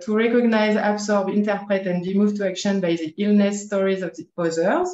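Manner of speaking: English read with a French accent. Real, not acted. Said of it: "avec l'accent français".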